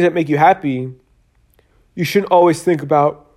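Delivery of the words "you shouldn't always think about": talking through a yawn; words stretched by a yawn. Real, not acted. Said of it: "I'm yawning a lot".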